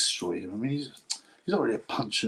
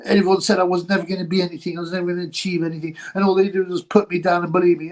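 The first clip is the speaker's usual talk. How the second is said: higher-pitched mock sob story; mock crying; 5 semitones higher than usual. Streamer imitating a boxer's hard-luck speech, mock crying. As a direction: imitate him pouring out a tearful tale. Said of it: "and he was crying".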